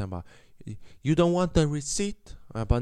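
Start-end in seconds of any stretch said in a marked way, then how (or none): 1.0-2.4 put-on high-pitched Italian-accented call after someone. Cashier calling after departing customer, high mock Italian accent. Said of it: "han ropar på mig efter".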